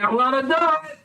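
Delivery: put-on high, excited kid's yell; defiant little boy. Boy defies crowd with knife.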